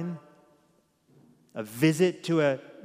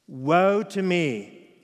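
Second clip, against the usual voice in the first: slow, building cry of woe; slow prophetic declaration, growing higher and louder; Isaiah's lament; 3 semitones higher, 5 dB louder, slower than usual. Acted. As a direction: declaim the prophet's confession with rising intensity. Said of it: "how he responded?".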